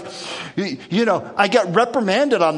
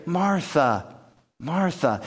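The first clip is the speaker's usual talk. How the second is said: loving; slower than usual. Shown as a demonstration. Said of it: "This loving".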